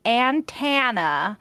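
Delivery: imitated Southern antenna, drawn out slowly; Kentucky accent. Wife teasing how her husband said antenna, Kentucky accent. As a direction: say it with a stretched Kentucky twang. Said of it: "his family's from Kentucky and Tennessee, he used to say".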